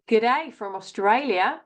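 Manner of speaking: lightly put-on Australian accent; attempted Australian accent. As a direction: have a playful go at an Australian accent. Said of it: "my attempt at an Australian accent".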